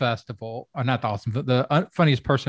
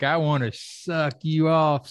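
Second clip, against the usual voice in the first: lightly voiced grandma, drawn out and higher; a hint of a slow, raised grandma voice; grandma character; 4 semitones higher, slower than usual. Lewd comedian playing a grandma, lightly voiced grandma character. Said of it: "who play a grandma character".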